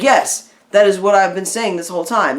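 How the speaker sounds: high, loud burst of vindication; mock-triumphant, leaping up on the first word; emphatic agreement. Acted lawyer's delighted reply in story.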